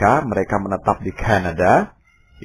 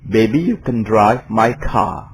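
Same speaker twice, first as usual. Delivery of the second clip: put-on slow British-accented lyric; slow British "my car"; a band's lyric; 3 semitones higher, slower than usual. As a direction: quote the band's line, slow. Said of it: "Mereka tidak bilang my car".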